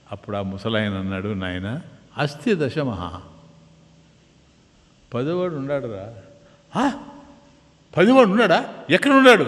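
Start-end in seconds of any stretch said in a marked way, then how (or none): 1.3-6.2 put-on reassuring old man. Old man gently assuring the boys the tenth is here. 6.8-9.4 much higher, louder, amazed questions; astonished boys. Acted. Boys suddenly asking the old man where the tenth is.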